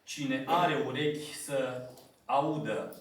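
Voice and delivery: measured, solemn Bible reading; scripture reading. Acted. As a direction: read the verses out to the congregation with gravity.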